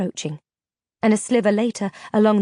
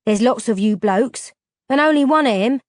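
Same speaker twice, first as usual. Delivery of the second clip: louder scornful push at the end; scoffing; 3 semitones higher, 5 dB louder than usual. Acted. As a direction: scoff at their fear. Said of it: "Delph scoffed".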